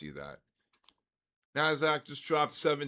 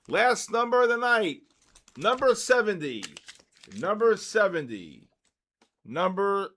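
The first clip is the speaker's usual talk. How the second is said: higher, louder announcement; announcing; 4 semitones higher, 5 dB louder than usual. Real, not acted. Host calling the last raffle number of the night, loud announcement. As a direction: call out the final number to the room.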